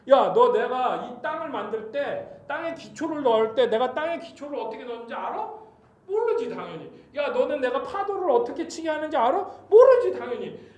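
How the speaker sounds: God interrogating. Acted. God grills Job about creation, acted forceful interrogation. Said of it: "막 질문을 하시는 거예요".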